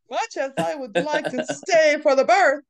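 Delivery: lofty, high aristocratic line; haughty Madame Devatch. Retold or imitated. Repeating Madame Devatch's exit line to a friend, haughty. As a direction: deliver it like a snooty courtier again, laughing midway. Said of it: "kills me every time".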